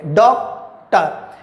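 डॉक्टर। slowly split into its two syllables; two separate syllables. Shown as a demonstration. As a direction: say डॉक्टर। in two slow beats, डॉक then टर. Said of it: "दो syllable use किए गए".

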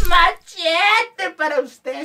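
very slow, high drawn-out call; hammed-up stretched MACHETE; catchphrase call. Comic catchphrase called out. (pregón cómico, agudo y alargado)

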